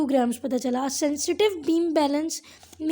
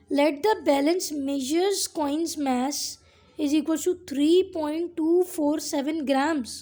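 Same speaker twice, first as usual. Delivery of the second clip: very slow dictation; much slower than usual. Shown as a demonstration. Teacher dictating the coin mass example, extremely slow. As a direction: read the example out word by word, very slowly. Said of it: "dictating textbook example slowly".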